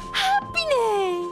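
slow, drawn-out happy exclamation; swooning with happiness; blissful cheer. Acted. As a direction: stretch it out in bliss. Thrilled at lunch together.

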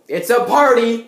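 high, loud silly cheer; hammed-up party cheer. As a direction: throw your arms up and cheer it.

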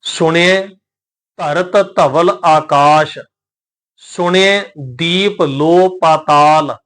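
slow, measured recitation of sacred verse; scripture recitation. Shown as a demonstration. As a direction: recite each word drawn out, with pauses.

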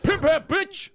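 high, loud cartoon yell; mock Mario yell. Gamer voicing Mario throwing his hat, high yell. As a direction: squeal it like a cartoon plumber. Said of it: "He's like".

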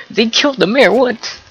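high, stunned outburst; can't believe what just happened; real shock, voice jumping up; shocked disbelief. Real, not acted. Mayor killed unexpectedly.

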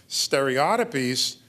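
"Stereotypies" said slowly as stereo-tih-peez; British pronunciation. Shown as a demonstration. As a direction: stress "Stereotypies" on OT, ending in -peez. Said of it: "that's the British pronunciation".

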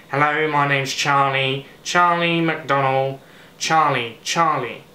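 nasal, drawn-out YouTuber impression; Charlie McDonnell. Vlogger practising a channel introduction, attempted nasal impression. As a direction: lightly imitate a nasal British vlogger, on one note. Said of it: "It's very nasal".

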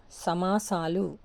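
slow సమాసాలు with a long సా; long vowel. Shown as a demonstration. Teacher showing where the vowel lengthens in సమాసాలు, slowly stretched. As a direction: draw out the సా in సమాసాలు. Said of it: "సాకు దీర్ఘం వచ్చింది చూడండి".

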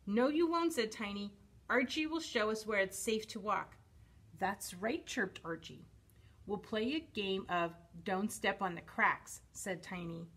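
animated picture-book reading with lively emphasis; story narration. A narrator's reading. Reading a dinosaur picture book to children, expressive storytelling. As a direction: read it expressively for little listeners.

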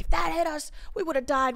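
high-pitched retold alarm; mock freak-out. Retelling the near miss with a thrown orange, mock freak-out. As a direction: pitch it up in exaggerated disbelief. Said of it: "we were all freaking out".

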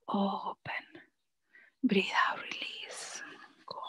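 soft whisper falling away to nothing; fading whispered cues. Real, not acted. Coach easing the class into the exhale, whispering. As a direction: talk them through the out-breath, fading out.

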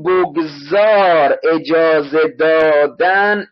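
very slow, drawn-out syllables; laboriously slow explanation; emphatic teaching. Shown as a demonstration. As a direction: stretch each word out for the class. Teacher stresses a word's meaning and spelling.

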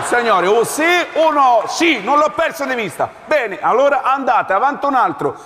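demanding officer. Acted.

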